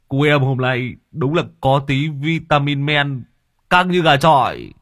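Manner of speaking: high, loud mocking drunk; mock him, tipsy; teasing drunk voice. A narrator's reading.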